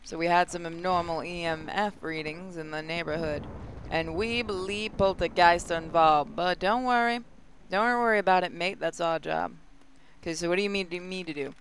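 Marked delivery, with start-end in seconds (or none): 0.0-9.5 lightly voiced Aussie briefing; mild Australian accent, reassuring. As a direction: read the briefing as a laid-back Australian. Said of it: "they're Australian".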